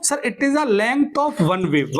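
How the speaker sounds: each word spaced out slowly for note-taking; slow dictation. Shown as a demonstration. Teacher dictating the definition to students, slow and spaced. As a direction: dictate it slowly so the class can write. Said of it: "या फिर बोल दो".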